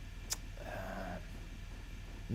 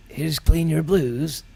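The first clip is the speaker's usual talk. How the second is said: higher, slower, drawn-out Kerry lilt; mock Kerry accent; 4 semitones higher, 8 dB louder, slower than usual. Telling the crowd the song title, in a clumsy Kerry accent. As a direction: put on a half-hearted Kerry voice for the title. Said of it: "can't do the Kerry accent".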